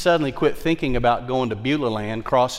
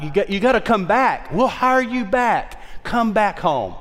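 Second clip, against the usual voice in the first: urgent plea; 8 semitones higher, 3 dB louder than usual. Retold or imitated. Pleading with former staff to return.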